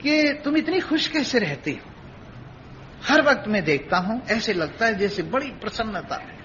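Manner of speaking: softly marvel, lifting each repeated phrase a little; lightly voiced curious husband. Husband asking his wife why she is so happy, lightly acted wonder. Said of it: "तो वो पूछने लगा".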